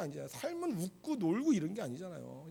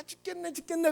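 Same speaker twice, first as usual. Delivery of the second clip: higher-pitched mock patient complaint; groaning patients; 8 semitones higher than usual. Preacher mimicking other hospital patients, mock complaint. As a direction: imitate sick people moaning about their lot. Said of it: "아픈 사람 문명 가면 다른 사람들은".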